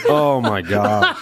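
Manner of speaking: puckering from sour candy; talking through sour candy; eating sour candy. Real, not acted. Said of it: "So sour".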